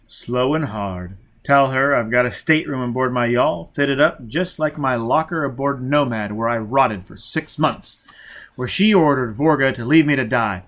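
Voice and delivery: loud, intense vengeful threats; grim furious threat; menacing threat. Acted.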